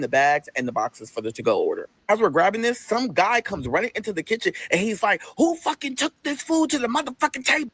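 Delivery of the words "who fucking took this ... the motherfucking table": higher-pitched mock outrage; imitated angry coworker. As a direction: demand answers in a raised pitch. Angry man bursts into kitchen.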